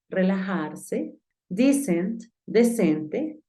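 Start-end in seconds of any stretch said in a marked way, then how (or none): 1.5-2.2 "Decent" said "dee-sent"; pronunciation model. Shown as a demonstration. Teacher reviewing homework words, "Decent" as dee-sent. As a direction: ee sound opening "Decent". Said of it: "Te voy a pronunciar nuevamente las palabras".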